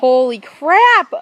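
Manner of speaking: loud, slow, stretched exclamation; shocked. Real, not acted. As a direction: blurt it as the geyser erupts. Soda geyser erupts.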